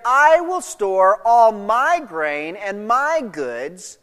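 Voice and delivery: slow down, leaning on "I" and each "my"; stress on I and MY. Acted. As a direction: stretch "I" and "my" possessively. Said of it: "Again, notice the emphasis".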